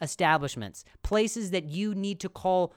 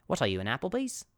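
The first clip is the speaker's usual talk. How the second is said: Australian accent; faster than usual. Shown as a demonstration. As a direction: settle into a mock Australian accent. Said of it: "There we go".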